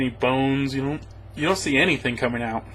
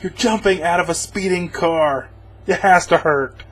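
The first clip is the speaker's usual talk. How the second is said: higher, louder, incredulous objection; exasperated protest; 4 semitones higher, 4 dB louder than usual. Retold or imitated. Reviewer yelling at the hero's stunt, exasperated and loud. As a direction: call out the stunt like a fed-up viewer. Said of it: "I'm like".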